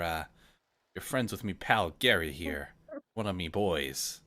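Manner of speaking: lightly voiced gruff old pirate; a hint of a salty sea dog.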